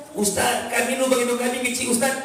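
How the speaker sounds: mildly pleading mock objection; protesting congregant. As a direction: object to the teacher, pitched a little up.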